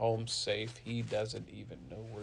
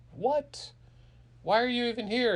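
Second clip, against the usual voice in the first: high, startled outburst; incredulous clerk; 11 semitones higher, 4 dB louder than usual. Acted. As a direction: demand an explanation in disbelief. Clerk reacts to moneyless customer.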